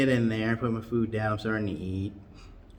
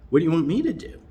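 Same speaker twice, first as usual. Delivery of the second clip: higher, louder exasperated ask; 8 semitones higher, 6 dB louder, faster than usual. Retold or imitated. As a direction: throw up your hands. Exasperated question.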